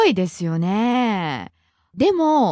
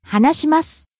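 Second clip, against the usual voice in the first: 話します rising on な, falling on the last す; pitch accent demo; 2 semitones higher than usual. Shown as a demonstration. Teacher models the masu form, 話します rising on な and falling on す. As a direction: climb at な in 話します and drop at す. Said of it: "Rising on the second syllable na".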